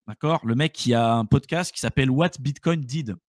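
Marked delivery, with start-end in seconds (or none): 2.1-3.2 English title in a French accent; self-mocked English accent. Real, not acted. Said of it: "avec mon super accent anglais".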